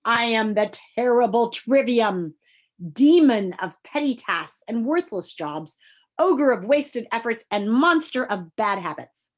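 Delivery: loud, slow villainous proclamation; booming villain. Acted. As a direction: proclaim your terrible titles slowly. Villain announces himself.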